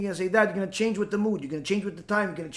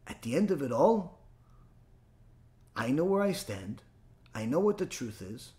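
softer, lower, settled; calm certainty; 6 semitones lower, 7 dB quieter than usual. Acted. Rabbi quietly voicing an unmoved believer's certainty.

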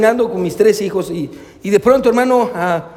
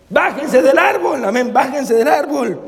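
put-on high, drawn-out call up to children; desperate shout, retold; 5 semitones higher, slower than usual. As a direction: mock-desperate parental yell, not full volume. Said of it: "en mi desesperación les grité".

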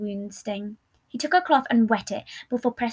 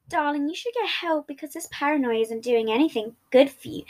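salty; 4 semitones higher than usual. Acted. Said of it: "couldn't help but be salty".

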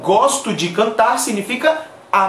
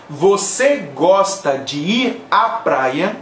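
slow model phrase; 2 semitones lower, slower than usual. Shown as a demonstration. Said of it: "Eso en español sería".

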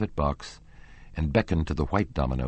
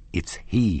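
exclaimed; 3 semitones higher than usual. Acted. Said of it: "he exclaimed".

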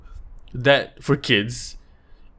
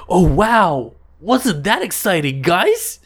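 high, chirpy mock presenter voice; kids' show host voice; 7 semitones higher, slower than usual. Mocking a kids' show host cheering at the audience, high and chirpy. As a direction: ham up a children's TV host asking for agreement. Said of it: "their tone is like that".

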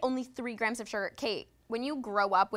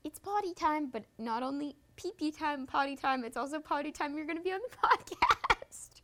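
put-on high playful voice for a child; sing-song kid voice; 5 semitones higher than usual. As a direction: talk to a little kid. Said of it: "I'm ready to say".

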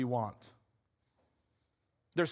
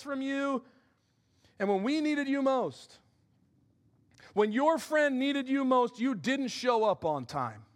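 hurt accusation; 5 semitones higher than usual. Retold or imitated. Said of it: "you can imagine what she's thinking".

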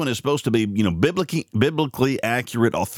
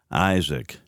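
ordinary delivery

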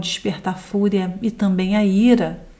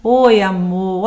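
gentle greeting; slower than usual. Retold or imitated. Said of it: "E a outra cena".

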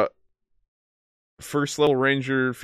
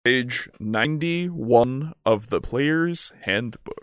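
slowed down, spelled out clearly; slower than usual. Real, not acted. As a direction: repeat it slowly for a bad line. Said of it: "You keep cutting out".

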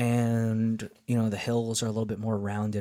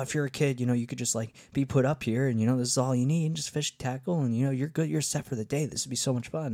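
higher-pitched imitation of a delighted fisherman; joyful; 4 semitones higher than usual. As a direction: bubble over with retold enthusiasm. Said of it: "he's talking with such a joy".

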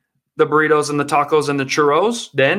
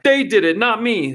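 Joe Biden impression; 4 semitones higher than usual. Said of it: "the old Joe Brandon".

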